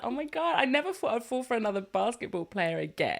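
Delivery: lightly hammed-up romantic wonder; acted swooning disbelief. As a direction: sigh it like a smitten heroine, slowing at the end. Voices the girl's swooning disbelief.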